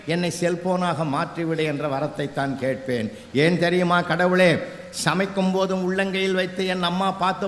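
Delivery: put-on oratorical reading of a child's essay; recited plea. Child begging God to become a cellphone, declaimed plea.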